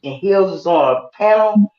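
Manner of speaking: echoing in a small bathroom; talking from an echoey bathroom. Real, not acted. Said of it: "you got a little bit of an echo".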